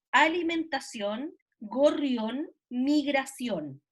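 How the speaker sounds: slow, separated words, each ending clearly in "ón"; measured word list. Shown as a demonstration. Listing words with repeated "on", slowly and separately. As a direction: read "alimentación", "gorrión", "migración" one by one, slowly. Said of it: "se repite la palabra on".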